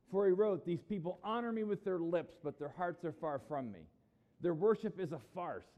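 forceful rebuke, pushed at each opening; railing. Acted. Jesus railing against these guys, forceful. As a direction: denounce them in a worked-up voice. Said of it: "railed against these guys".

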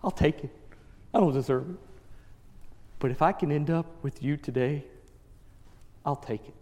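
low, subdued voice of a dying man; humble acceptance. Retold or imitated. Dying criminal to Jesus on the cross, humble acceptance. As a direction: say it softly, with pauses between phrases.

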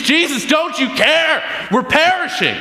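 hammed-up cry of frightened fishermen to the sleeping teacher; imitating desperate disciples in the storm; mock panic. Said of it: "they're panicking".

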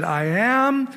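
the voice from the burning bush naming itself, solemn; voice of God. Acted. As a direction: let the last words stretch out slowly. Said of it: "And he said".

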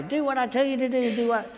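lightly mock a bossy coach rattling off orders; fussy, rapid-fire ordering about; bossy micromanaging.

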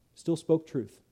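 ordinary talk

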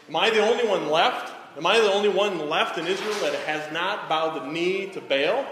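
a prophet alone, calling out to God; crying out to God. Retold or imitated. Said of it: "he's crying out to God".

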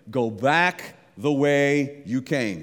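slow, weighty, every word spaced; slow command. Acted. God telling Elijah to go back, slow and weighty. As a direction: lay the command down deliberately. Preacher quotes God's command.

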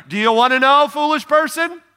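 blunt James voiced. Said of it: "He's like".

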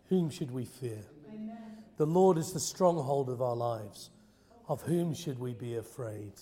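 earnest congregational prayer, measured phrases; heartfelt prayer led from the front; public prayer. Real, not acted. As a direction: pray aloud for the whole church, each phrase falling away.

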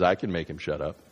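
low, understated offer; calm angel. Acted. Angel with flaming sword offering help, calm and low. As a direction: drop the voice low, quietly sure.

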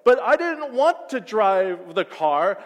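loud, slow indignant yell; mock yell. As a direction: shout it out, hammed-up. Arguing, yelling.

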